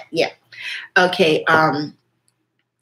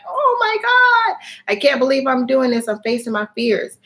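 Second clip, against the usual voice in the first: much higher, slowed, hammed-up gasp of awe; mock awe on sky deck; 6 semitones higher than usual.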